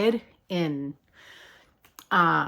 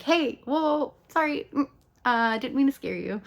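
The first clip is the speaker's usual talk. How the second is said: apologetic; 8 semitones higher than usual. Acted. Acting Eddie gently apologizing to Chrissy.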